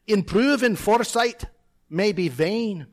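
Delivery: measured Scots verse reading; Scottish accent. Acted. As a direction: read the poem with a Scottish burr. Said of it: "in my best Scottish accent".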